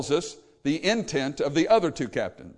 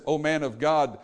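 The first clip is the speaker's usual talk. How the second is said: humble plea. Retold or imitated. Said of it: "this is a different attitude".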